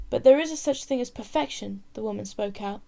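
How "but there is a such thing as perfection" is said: firm, louder, ringing out; clear and strong. Acted. Woman defying the prince before the crowd, clear and strong. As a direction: speak up clearly so the whole court hears. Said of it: "her voice clear and strong".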